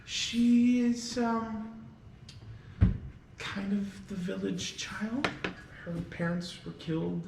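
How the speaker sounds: high, loud fussing hostess voice; a motherly innkeeper all in a flap; flustered innkeeper. Acted. Lydia explains the orphan girl to the guests, high and flustered. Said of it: "And Lydia goes".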